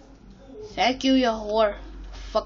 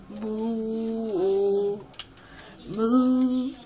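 cow moo. Retold or imitated. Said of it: "The cow be like".

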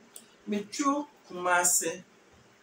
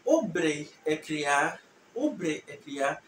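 slow, syllable by syllable; slow teaching demo; 3 semitones lower, slower than usual. Shown as a demonstration. Teacher slowly modelling the original word for students. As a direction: spell it out slowly for learners. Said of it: "I'm going to go into the original".

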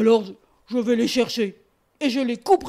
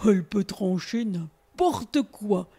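bear voice; 6 semitones lower, slower than usual. Acted. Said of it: "disait-il".

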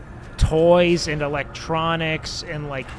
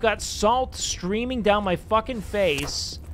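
worked-up rant; 4 semitones higher than usual. Real, not acted. Worked-up rant about the dog.

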